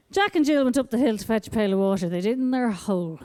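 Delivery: storybook reading voice, level and gentle; nursery rhyme reading. Shown as a demonstration. Mother reading a nursery rhyme to her child, lightly. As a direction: read it like a bedtime rhyme. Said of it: "I read them to the child like this".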